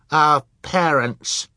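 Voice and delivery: high, loud and slow fierce cry. A narrator's reading. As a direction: say it fiercely, defending them. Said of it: "Sonny said fiercely".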